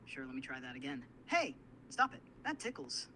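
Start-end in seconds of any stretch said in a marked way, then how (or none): 1.3-3.1 high, louder start, no real laugh; acting tickled. Assistant retrying the tickle act, high mock protest. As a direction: pretend ticklish protest, pitched up. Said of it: "Can you try that better".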